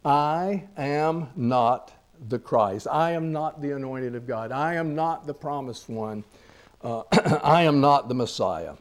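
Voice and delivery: "I am not" spaced out word by word at first, then repeated evenly; deliberate, emphatic denial, each "I am not" set out clearly. Retold or imitated. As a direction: hammer home "not" through measured repetition. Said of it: "by way of emphasis".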